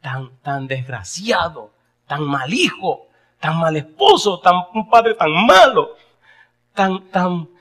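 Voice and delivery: a son sobbing out his failures to his mother; crying confession. Retold or imitated. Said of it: "empezó a gritar". (confesión entre lágrimas, lenta y creciente)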